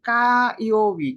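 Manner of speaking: slow model reading. Shown as a demonstration. Teacher showing students how to read কাইওবি, slow and careful. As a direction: spell out কাইওবি slowly for learners. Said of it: "ফায়ারের কাঞ্জিতে কি কি হইতে পারে?".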